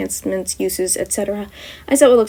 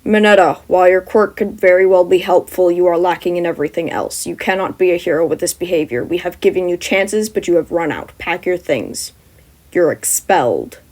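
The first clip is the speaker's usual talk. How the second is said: stern teacher; 2 semitones lower than usual. Acted. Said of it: "Aizawa commands".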